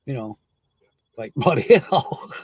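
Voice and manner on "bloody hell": put-on a quick, light British accent on "Bloody hell". Showing how Brits sound, light British accent. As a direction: drop into a hint of British accent. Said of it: "until they say certain words".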